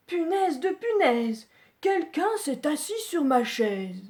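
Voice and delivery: a touch of an indignant papa bear; Papa Bear exclaiming. Acted. Papa Bear finding someone sat on his chair, mildly voiced. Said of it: "il s'écrie".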